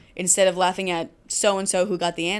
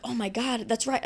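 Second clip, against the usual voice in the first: higher, softer imitation of dawning realization; mock realization; 4 semitones higher, 4 dB quieter than usual. Students told about their cuticles, mock realization. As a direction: voice a student suddenly convinced, lightly and high.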